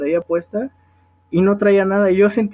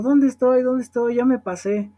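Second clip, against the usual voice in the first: mildly panicked, higher-pitched retelling; startled awake; 5 semitones higher than usual. Retold or imitated. Old woman waking on the metro, imitated as mildly startled. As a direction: imitate someone waking up disoriented, pitch raised. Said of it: "se despertó así bien espantada".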